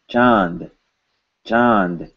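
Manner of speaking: "Chand" with a short n before the d; audible N. Shown as a demonstration. Teacher pointing out the N to students, audible N. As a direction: let the n sound in "Chand". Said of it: "I hear an N".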